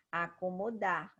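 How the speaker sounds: acomodar said slowly, weight on final DAR; stress on DAR. Shown as a demonstration. Teacher showing the last syllable is strongest, stressed DAR. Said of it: "Dar é a mais forte".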